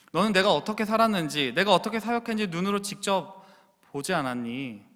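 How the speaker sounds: Paul urging Timothy to look at his life. Acted. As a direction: speak as Paul to his son in faith. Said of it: "사도 바울이 디모데에게 이야기하는 것처럼".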